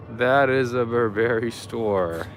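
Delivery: put-on slow, drawn-out British accent. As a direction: say it slowly as a playful Brit. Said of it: "that's me doing a British accent".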